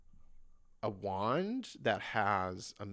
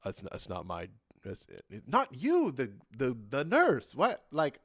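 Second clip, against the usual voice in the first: flustered guard; 2 semitones higher, 6 dB louder than usual. Acted. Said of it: "the guard's like".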